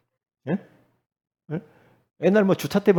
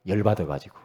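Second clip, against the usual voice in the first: ordinary delivery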